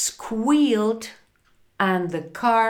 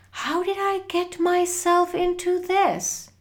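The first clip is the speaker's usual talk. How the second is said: crying out; 11 semitones higher than usual. A narrator's reading. Frank alone and lost in the rain, crying out in dismay. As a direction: lament your own foolishness. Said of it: "he cried".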